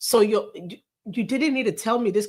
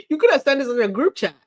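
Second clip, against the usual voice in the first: fast, higher, laughing as she mocks it; laughing scoff; 5 semitones higher, 4 dB louder, faster than usual. Real, not acted. Laughing at the article, scoffing. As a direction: laugh it out in disbelief.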